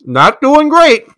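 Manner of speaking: high, slow strained from the heat; pushing words past the burn; mouth burning from spicy food. Real, not acted. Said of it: "How are you?".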